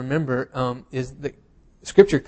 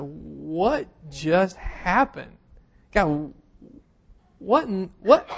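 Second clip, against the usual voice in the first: slow, dazed, stunned whisper-like question; like the rug was just pulled out from under you; stunned disbelief; 4 semitones higher, much slower than usual. Retold or imitated. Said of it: "we just looked at each other and was like".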